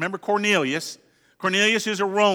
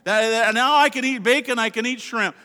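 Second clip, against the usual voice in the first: mock gloating; 4 semitones higher than usual. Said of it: "some might point at it and say".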